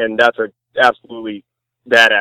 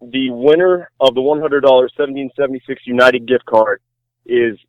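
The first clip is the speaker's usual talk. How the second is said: upbeat prize reveal, name held out; hyped giveaway announcement. Acted. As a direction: build up to the winner's name. Announces gift card winner.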